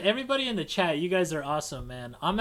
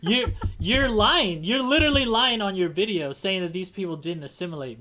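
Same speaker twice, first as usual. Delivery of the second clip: mock retort; 3 semitones higher, 5 dB louder than usual. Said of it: "And I'd be like".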